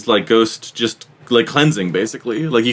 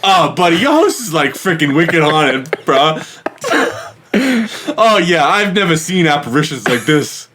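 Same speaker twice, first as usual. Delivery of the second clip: exaggerated New England accent; 3 semitones higher than usual. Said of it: "exaggerated New England guys".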